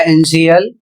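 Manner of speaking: एनसीएल said as the English word initial, with T as श; model pronunciation. Shown as a demonstration. Teacher models initial for students, clearly. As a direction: say एनसीएल with the T sounding as श. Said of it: "इसे पढ़ा जाएगा".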